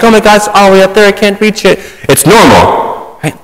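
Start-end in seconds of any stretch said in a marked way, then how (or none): 0.0-1.8 lightly mocking a daunted believer; mock awe. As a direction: act out being overwhelmed and out of reach. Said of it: "some sort of high-level thing like".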